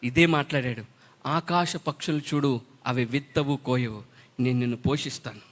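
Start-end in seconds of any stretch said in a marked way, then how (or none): 1.3-5.4 soft, slow, otherworldly divine voice; preacher quoting God's promise, hushed and slow. Retold or imitated. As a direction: let God speak gently and slowly, from far away. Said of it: "దేవుడు అన్నాడు".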